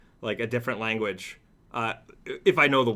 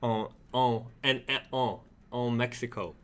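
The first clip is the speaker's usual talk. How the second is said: put-on French accent; 3 dB quieter than usual. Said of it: "I said Mexico in a French accent there".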